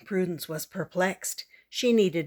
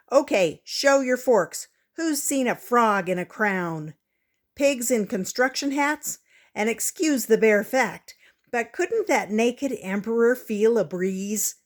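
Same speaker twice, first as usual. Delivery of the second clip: protest speech; 4 semitones higher, 5 dB louder than usual. Acted. Prudence protesting in cafeteria.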